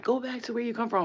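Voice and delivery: high, loud mock hostility; imitated angry jeer. Imitating guy at the rides, loud angry jeer. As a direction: throw it out loud as the irate man. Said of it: "he was like".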